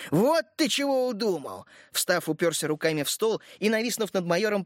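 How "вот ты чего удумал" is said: getting angry. A narrator's reading. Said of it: "начал заводиться Рогожин".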